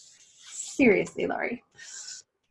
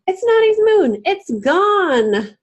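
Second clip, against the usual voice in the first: upset; 10 semitones higher, 6 dB louder, much slower than usual. Acted. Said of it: "Beanie began to cry".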